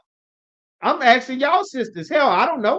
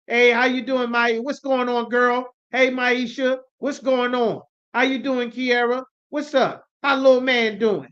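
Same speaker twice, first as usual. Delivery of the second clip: lightly acted chummy greeting, slightly higher; friendly salon small talk; 3 semitones higher than usual. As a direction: imitate casual girlfriend-to-girlfriend catching up. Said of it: "the way that you speak to each other".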